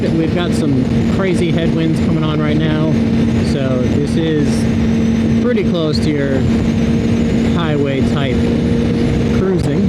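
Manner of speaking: helmet mic on the highway, wind roaring; talking inside a helmet over wind noise. Real, not acted. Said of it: "I do have a lot of wind noise in my helmet".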